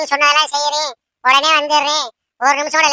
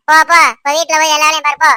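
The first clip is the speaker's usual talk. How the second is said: loud dismissive shooing; mother-in-law chasing daughter-in-law out, loud shooing; 4 dB louder, faster than usual. Acted. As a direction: drive her out of the room. Shooing her away.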